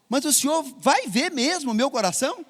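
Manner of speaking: put-on high, small child's question. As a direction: ask it like a wide-eyed little boy. Preacher voices sick child asking.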